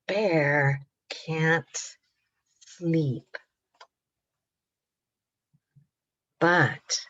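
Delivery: measured picture-book narration, slowing at the end; reading to children. A narrator's reading. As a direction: wind the story down for little listeners. Reads story to children.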